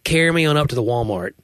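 lightly imitated Alabama accent; a hint of Alabama twang. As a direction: quote an Alabama friend with a touch of their accent. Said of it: "my Alabama friends will th".

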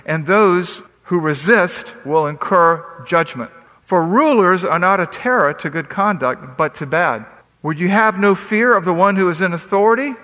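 measured, solemn reading of Romans; scripture reading. Acted. Pastor reading Romans to his congregation, solemn and measured. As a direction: read the verses with pulpit weight.

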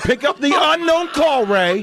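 high, slow, drawn-out call. Pretend. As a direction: call it out to the winner as an instruction. Calling out to contest winner.

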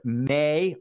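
weight on may; stress on may. Shown as a demonstration. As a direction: lean into the word may. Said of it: "emphasis in the original".

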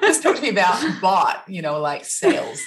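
playful put-on American accent; mock American accent. Host practicing an American accent for the guest. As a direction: try an American accent on "bought". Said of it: "I'm practicing my American accent".

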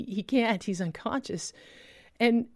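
ordinary talk, nothing marked

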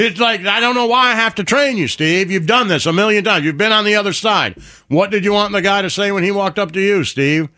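high-pitched exasperated trainer; exasperated scolding. Acted. Waiter lecturing the new trainee, exasperated.

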